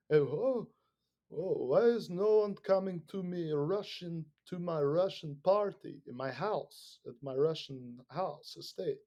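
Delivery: hammed-up pouting dictator; mock whiny Putin. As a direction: mimic a sulking host nobody visits.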